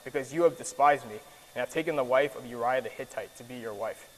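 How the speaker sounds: solemn prophet's rebuke, read with weight; scripture reading. Acted. Reads Nathan's rebuke aloud.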